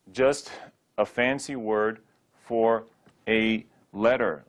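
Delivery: ordinary talk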